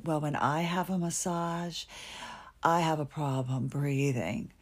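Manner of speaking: a hint of a put-on prissy patient; mocking the doctor. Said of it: "she doesn't sound like that".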